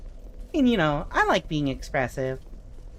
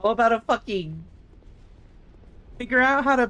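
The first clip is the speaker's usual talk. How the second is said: 1 frustrated; 2 semitones higher than usual. Real, not acted. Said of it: "a video game is pissing me off".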